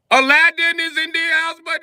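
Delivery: high, loud gleeful mock accent; mock Indian accent. Clerk greets his shaved friend, gleeful mock accent. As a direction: announce it like a delighted friend. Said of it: "he was like".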